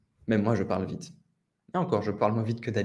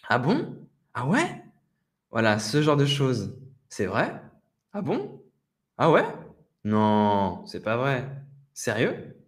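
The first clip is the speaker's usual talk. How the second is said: surprised listener reactions. Shown as a demonstration. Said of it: "ce petit genre de mots".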